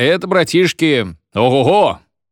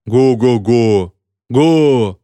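slow, booming ho-ho-ho, louder; class thundering laughter; 5 dB louder, much slower than usual. A narrator's reading. Class mocks the teacher, booming slow guffaw. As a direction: roar it like a whole class guffawing. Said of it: "загремел класс".

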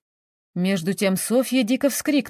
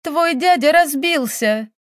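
high, slow cry of bad news; agitated exclamation; 6 semitones higher, 4 dB louder, slower than usual. A narrator's reading. Countess tells the girl of her uncle, crying out. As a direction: cry it out in distress.

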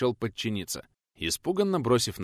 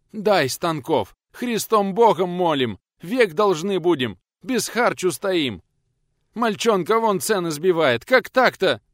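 begging peasants; 8 semitones higher, 6 dB louder than usual. Acted. Men crawling on knees begging.

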